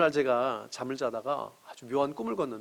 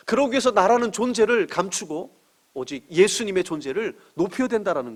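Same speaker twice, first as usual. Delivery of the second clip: forceful preaching; 4 semitones higher, 6 dB louder than usual. Acted. Sermon climax at full force.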